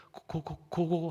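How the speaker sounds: slow, stuttering the first sound; mock terrified stammer; stammering in fear. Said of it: "벌벌벌 떨고 말도 못하고". (겁에 질려 더듬듯이)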